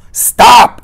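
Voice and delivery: high, loud shouted command; sharp high shout; urgent Inigo. A narrator's reading. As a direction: call out to halt someone. Inigo calls after departing Fezzik.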